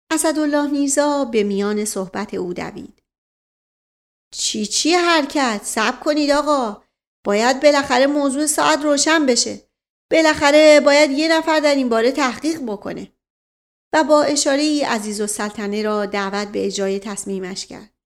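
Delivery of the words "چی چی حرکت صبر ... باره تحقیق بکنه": mocking objection. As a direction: scoff at the order, then insist. Asadollah objects, stopping the officers. (اعتراض تمسخرآمیز)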